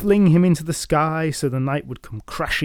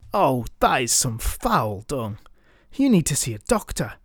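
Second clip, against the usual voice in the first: taunting; 3 semitones higher than usual. Acted. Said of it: "taunting words".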